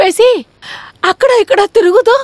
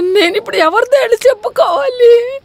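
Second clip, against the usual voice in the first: crying. Acted. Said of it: "ఎందుకే ఇప్పుడు ఏడుస్తున్నావు?".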